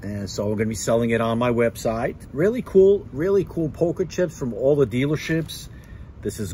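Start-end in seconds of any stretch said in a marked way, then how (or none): 2.3-5.7 excited. Real, not acted. Excited about gifted poker chips.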